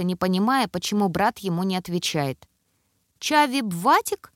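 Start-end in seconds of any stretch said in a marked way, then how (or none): 3.2-4.3 small squeaky voice, sad question; a toddler asking sadly, high and slow. A narrator's reading. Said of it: "своим писклявым голоском, на этот раз грустно".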